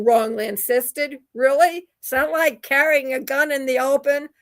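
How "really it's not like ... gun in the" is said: pointed, scornful challenge; sarcastic really. Real, not acted. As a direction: throw the question back at him. Scoffing at the FBI director's claim.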